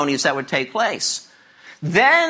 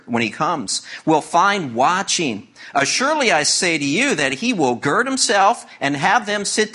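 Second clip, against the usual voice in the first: measured, solemn Bible reading; scripture reading; 3 semitones lower than usual. Acted. Pastor reading Luke to the congregation, solemn reading voice. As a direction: read the passage with weight and care. Reads the scripture passage aloud.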